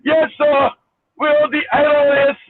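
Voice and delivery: lightly mocked Indian accent of a scam caller. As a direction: put on a mild Indian accent, formally. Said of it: "with an Indian accent".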